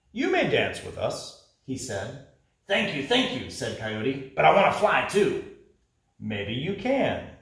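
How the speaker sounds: lively storybook narration for a class; teacher reading to the class, storytelling voice; reading a story to children. Acted. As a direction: read it aloud like picture-book time. Teacher reads picture book aloud.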